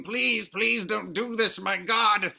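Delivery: half-hearted cry for mercy; mock screamed plea. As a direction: imitate a bug pleading for its life. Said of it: "it's screaming and yelling and saying".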